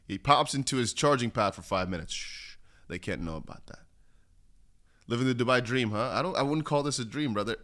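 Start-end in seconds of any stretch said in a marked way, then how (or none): 2.1-3.8 hushed conspiratorial whisper; mock-secret whisper. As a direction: let them in on a secret. Secret joke whispered to chat.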